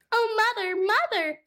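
high, small kitten voice calling out; a scared little kitten crying for mum; frightened kitten. Acted. Kitten Moppet calling to her mother, high and frightened.

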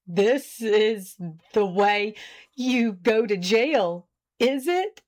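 slow, halting words, as if breathless from laughing; gasped through mirth. A narrator's reading. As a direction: gasp it out bit by bit, rising on the question. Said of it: "he gasped".

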